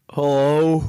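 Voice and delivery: lazy, slurred phone greeting; slurred hello. Retold or imitated. Jay answering the phone, slurred hello. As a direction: slur the hello like a stoner picking up. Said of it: "It's kinda slurred".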